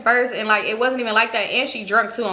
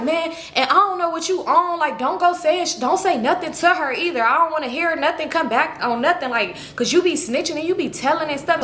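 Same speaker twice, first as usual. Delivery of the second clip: imitated quarrelsome warning, pitched up; arguing; 5 semitones higher than usual. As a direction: act out his insistent telling-off. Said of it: "they going back and forth arguing".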